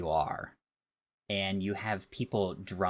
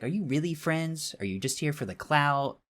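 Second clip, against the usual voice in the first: incredulous, pitched way up; exasperated disbelief; 7 semitones higher, 3 dB louder than usual. Retold or imitated. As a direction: scoff at them in disbelief. Exasperated rhetorical jab at phone users.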